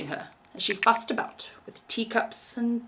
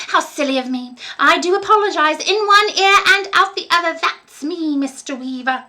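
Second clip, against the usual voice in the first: put-on high, sugary old lady voice, softening at the end; a doting landlady, gushing then hushed; sweet old landlady; 9 semitones higher, 10 dB louder than usual. A narrator's reading. Landlady fawning over young Billy, sweet high voice.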